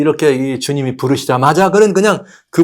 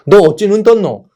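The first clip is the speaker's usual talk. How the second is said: sharp, louder, higher accusing question; demanding interrogation; 6 semitones higher, 5 dB louder than usual. Acted. Pharisees demanding how the blind man can see: loud accusing question. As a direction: grill him like a suspicious Pharisee.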